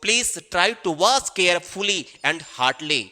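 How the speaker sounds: please try to watch carefully, said very slowly; slow earnest request; slow appeal. Shown as a demonstration. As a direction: plead slowly with students. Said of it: "teacher urging class".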